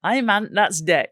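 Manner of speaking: slow, put-on Newcastle accent; drawn-out Northeast dialect, lightly hammed; Geordie accent. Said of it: "writing this in some north and e-, Northeastern phonetic".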